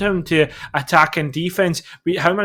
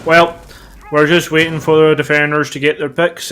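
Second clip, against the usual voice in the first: put-on failed American accent; 6 dB louder than usual. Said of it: "trying to do an American accent but going Northern Irish".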